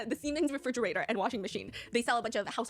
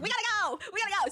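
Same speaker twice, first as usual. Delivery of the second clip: higher, louder, urgent mock call; mock news crew rush; 9 semitones higher, 3 dB louder, faster than usual. News stations rushing to cover the fridge smashing, mock urgent call. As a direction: play the reporters scrambling to leave.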